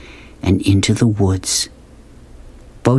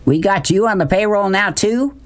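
mild shout; 9 semitones higher than usual. A narrator's reading. Big man teases sweeping boy, mild shout. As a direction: call it across, pitched up. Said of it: "Beauchamp shouted".

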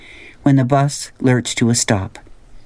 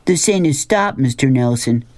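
helpful call-out; 2 semitones higher than usual. Acted. Billy corrects the bus driver, mildly helpful call-out. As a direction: call it out as if helping, without yelling. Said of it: "Billy called out helpfully".

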